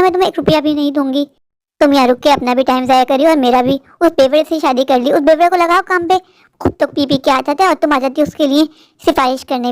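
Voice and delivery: scolding rich sister. Acted. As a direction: brush her off with contempt.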